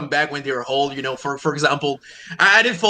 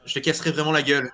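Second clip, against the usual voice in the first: France French; 3 semitones lower, 5 dB quieter, much faster than usual. Shown as a demonstration. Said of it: "for example, would say".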